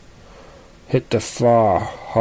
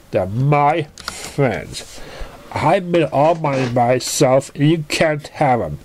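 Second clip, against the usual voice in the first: tearful anger; 3 semitones higher, slower than usual. Acted. Pinky crying possessively.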